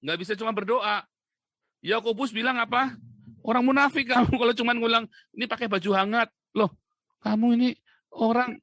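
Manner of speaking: loud, high-pitched rebuke; scolding tirade. Real, not acted. Preacher scolding people who only pray, shouted rebuke. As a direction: berate the hypocrites at full voice.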